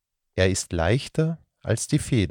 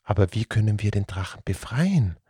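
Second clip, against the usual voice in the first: agitated. Acted. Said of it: "fragte Alois aufgebracht".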